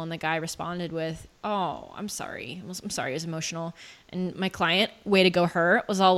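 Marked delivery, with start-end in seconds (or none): 1.4-3.7 mild, soft retold apology; apologetic. Friend replying to the client's emotional session, softly apologetic. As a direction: quietly quote an awkward apology.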